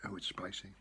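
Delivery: breathy whisper after a hot bite; whispered gasp from spice. Real, not acted. Reacting to spicy noodles.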